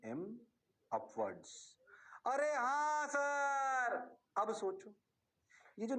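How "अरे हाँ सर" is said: drawn-out, slow student agreement; mock student reply. Teacher mimics students agreeing, slowly drawn out. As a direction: stretch it out like a lazy class.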